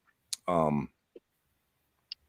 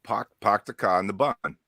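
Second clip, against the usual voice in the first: Boston accent test. Shown as a demonstration. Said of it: "Say it".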